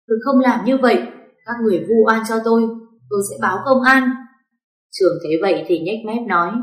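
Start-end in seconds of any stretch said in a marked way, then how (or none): 0.1-4.1 yelling denial. Acted. Ngọc screaming her innocence after being exposed. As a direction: scream that you did nothing wrong. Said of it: "gào lên".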